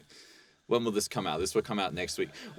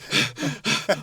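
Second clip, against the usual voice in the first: big breathless gasp; mock gasp; 6 semitones higher, 7 dB quieter than usual. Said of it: "it's not like I'm like".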